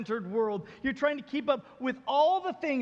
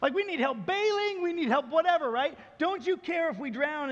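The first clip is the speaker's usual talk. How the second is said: panicked disciples; 6 semitones higher, 3 dB louder than usual. Retold or imitated. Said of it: "they basically just say".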